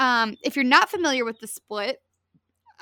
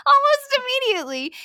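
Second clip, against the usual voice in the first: much higher, laughing disbelief; 13 semitones higher, 6 dB louder than usual. Real, not acted. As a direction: squeal it through laughter. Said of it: "and almost immediately".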